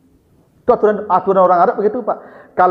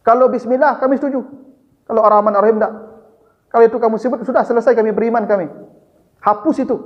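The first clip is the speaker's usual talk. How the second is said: higher, quicker voice for the objecting envoy; Suhel objecting; 6 semitones higher, faster than usual. Retold or imitated. Suhel the Quraysh envoy protesting to the Prophet, higher and hurried. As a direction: press the objection fast and a bit higher.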